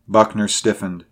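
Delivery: usual speaking voice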